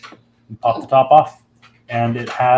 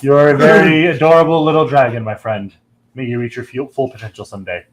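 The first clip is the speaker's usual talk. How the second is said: deep dragon voice; 2 semitones higher, 5 dB louder than usual. Acted. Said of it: "you hear a deep voice".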